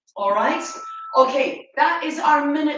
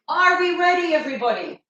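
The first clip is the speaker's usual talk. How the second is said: peppy call; 3 semitones higher, 4 dB louder, faster than usual. Real, not acted. Coach rallying class.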